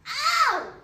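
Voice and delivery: a sharp yelp of hurt; shouting. Retold or imitated. Child cries out as the prickle is pulled. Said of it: "I shouted".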